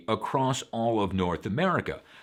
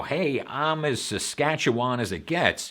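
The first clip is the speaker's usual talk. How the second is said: proud regional talent; 4 semitones higher than usual. Retold or imitated. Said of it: "So if you're like".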